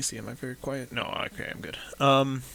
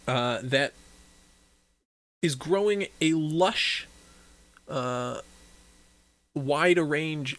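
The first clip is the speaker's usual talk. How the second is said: game master narration; 4 dB louder than usual. Acted. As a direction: set the scene for the players.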